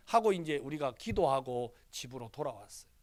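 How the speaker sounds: ordinary delivery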